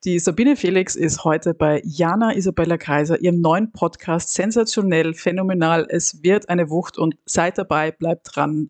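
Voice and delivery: booming hype announcer, names right way round; big build-up, slowing at the end; monster truck ad. Pretend. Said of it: "das war meine Ansage".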